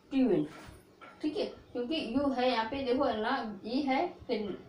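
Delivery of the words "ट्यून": "ट्यून" as one syllable with yu; model pronunciation. Shown as a demonstration. Teacher answers own drill question, model pronunciation "ट्यून". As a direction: say "ट्यून", stopping on the n. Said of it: "क्या पढ़ोगे".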